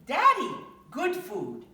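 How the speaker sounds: put-on high, slow, sweet child pleading; little girl voice. Tyra showing her daddy the food, high childish plea. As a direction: coax daddy like a small kid.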